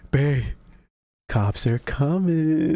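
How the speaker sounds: slow, laughing taunt. Retold or imitated. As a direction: drag it out through laughter. Crew taunts again, laughing.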